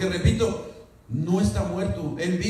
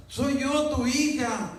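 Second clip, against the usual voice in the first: fake daughter repeating; 9 semitones higher, slower than usual.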